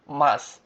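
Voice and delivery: মাস as one syllable, ending on s with no u; silent final u. Shown as a demonstration. Teacher answering how masu is pronounced, silent final u. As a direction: drop the vowel after s in মাস. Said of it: "মাসুর উচ্চারণটা কি হবে?".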